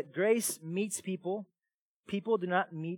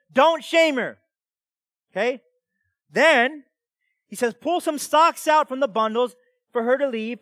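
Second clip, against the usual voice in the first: raised, emphatic preacher's voice; preaching; 7 semitones higher, 10 dB louder than usual. Retold or imitated. Preacher voicing Boaz telling his men not to shame her, emphatic preaching. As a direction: preach the quote with rising urgency. Preaches Boaz's words forcefully.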